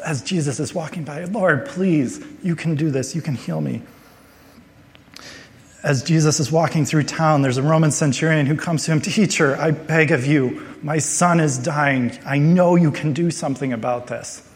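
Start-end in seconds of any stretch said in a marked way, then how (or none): 1.2-3.8 acted plea, starting higher and easing down; crying out. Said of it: "He is crying out to God". 9.0-14.4 acted, mildly urgent plea; begging. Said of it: "These are crying out".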